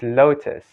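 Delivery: "lotus" said "LOH-tis"; long gliding o in "lotus"; American-style "lotus"; American pronunciation. Shown as a demonstration. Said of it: "the last is".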